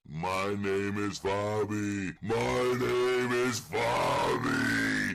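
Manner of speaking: high, slow motherly voice; mum voice. Acted. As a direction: put on a fussy mama voice. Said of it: "Butch, in a mum voice".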